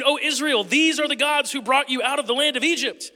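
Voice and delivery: excited exclaim. Acted. The people hailing the golden calf, a lightly voiced excited cry. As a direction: cheer it like a thrilled crowd. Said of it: "they exclaimed".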